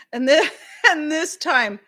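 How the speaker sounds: words broken by a real laugh; can't get past the giggles; laughing hard. Real, not acted. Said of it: "I'm laughing so hard".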